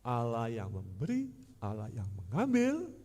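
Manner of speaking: slow, sneering sing-song with each phrase rising at the end; slow sarcastic taunt; mocking. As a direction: toy with memberi and mengambil, lifting both mockingly. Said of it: "Dia mengejek dengan kalimat-kalimat yang dipermainkan".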